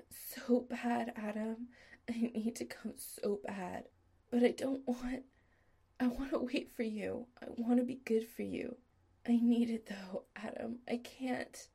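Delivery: beg, breathless and close to breaking; needy pleading. Acted. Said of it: "low and needy".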